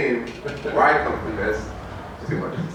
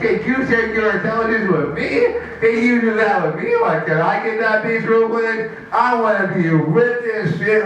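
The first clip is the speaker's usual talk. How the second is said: higher-pitched, mock-earnest pleading; eager admirer; 5 semitones higher than usual. Admirer asking the big guy for help, eager. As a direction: beg for his secret, hammed up.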